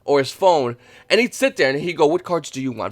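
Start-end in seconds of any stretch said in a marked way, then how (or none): 2.1-2.9 lightly imitated calm, easy question; a hint of an unhurried trader asking; mild mock calm dealer voice; very calmly. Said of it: "Very calmly".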